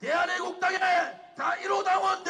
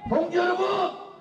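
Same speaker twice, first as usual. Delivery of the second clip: roaring rallying speech. Real, not acted. Rally leader calls to the crowd.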